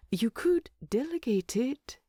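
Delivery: drowsy hobbit offering advice; whispered suggestion. Acted. Bilbo teasing sleepily.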